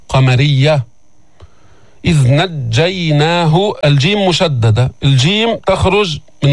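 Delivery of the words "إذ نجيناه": slow, drawn-out recitation; Quran recitation. Shown as a demonstration. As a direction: chant each syllable deliberately. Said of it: "teacher recites verse".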